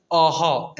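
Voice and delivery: अह said as two open syllables, "aw-haw"; pronunciation demo. Shown as a demonstration. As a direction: sound out अह slowly for learners. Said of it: "ऐसे उच्चारण किया जाता है".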